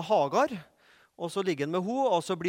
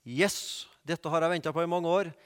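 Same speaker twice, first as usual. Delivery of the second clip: mock eager Moses; 3 semitones lower than usual. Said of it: "Høres litt mer sånn kult ut på engelsk".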